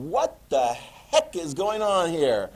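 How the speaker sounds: slow, drawn-out disbelief; hammed-up bewilderment; mock exasperation. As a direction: act out baffled indignation, stretching the words. Voices baffled, annoyed Germans.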